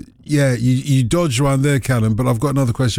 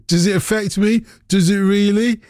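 lightly put-on Brummie accent, pitched higher; 6 semitones higher than usual. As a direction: read it as a high-pitched mock Brummie. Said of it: "In my Brummie accent".

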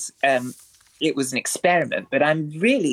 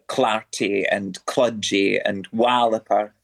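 Scottish words; 6 semitones lower, slower than usual. Shown as a demonstration. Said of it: "I love to say things like".

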